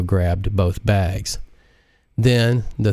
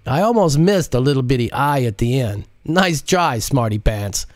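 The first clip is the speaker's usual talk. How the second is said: smirking tease; 5 semitones higher than usual. Acted. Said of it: "with a smirk".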